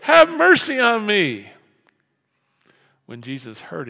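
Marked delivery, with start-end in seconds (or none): 0.0-1.5 loud shouted plea. Retold or imitated. Blind man calling Jesus louder, high desperate shout. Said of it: "but he only shouted louder".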